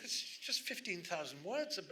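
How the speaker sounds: acted disbelief at a small result; mock dismay. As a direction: voice a writer's quiet alarm. Writer's dismayed thought, acted.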